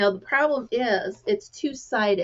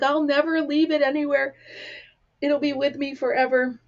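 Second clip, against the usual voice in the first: higher, earnest imitation of a moved girl; mildly overcome, pitched up; retold emotional gratitude; 5 semitones higher than usual. Grateful girl promises to keep it forever, mildly tearful imitation.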